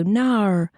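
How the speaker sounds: "No" said with an R at the end, nohr; Australian no. Retold or imitated. Teacher reacting to stitches, Australian no. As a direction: say "No" the Australian way with a final R. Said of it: "you go".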